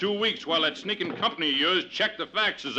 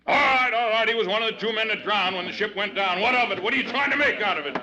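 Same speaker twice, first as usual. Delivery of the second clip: a captain bristling under questioning; defensive anger; 4 semitones higher than usual. Acted. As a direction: snap back at the accuser, getting faster. Captain defends himself at hearing.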